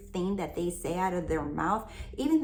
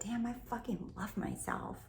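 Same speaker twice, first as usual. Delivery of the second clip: softer, casual swearing affirmation; her own casual way; 3 semitones higher, 7 dB quieter than usual. Shown as a demonstration. Coach showing her own blunt version, softer and casual. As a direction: say it the way you'd really talk. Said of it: "That sounds like me".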